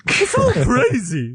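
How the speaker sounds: high, slow clown voice; drawn-out goofy clown; silly clown. Acted. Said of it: "I was going for any kind of clown voice".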